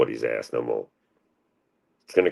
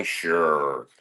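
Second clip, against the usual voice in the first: dry sarcastic sure; mock agreement, dry and deadpan. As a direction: say it like you don't mean it. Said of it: "That's called sarcasm".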